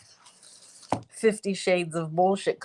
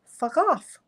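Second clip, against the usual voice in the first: imitating Els; 5 semitones higher than usual. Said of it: "it literally said".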